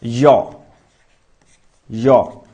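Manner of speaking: यो said alone as "yaw", tongue toward the palate; isolated यो from the palate, demonstrated for learners; palatal sound demo. Shown as a demonstration. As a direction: sound out यो low, one isolated syllable at a time. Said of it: "वो होता तालु".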